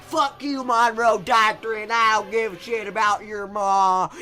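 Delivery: loud mock American defiance; dismissive Americans. Americans brushing off France during their civil war, loud and dismissive. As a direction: belt out a brash refusal. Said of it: "the Americans don't even help".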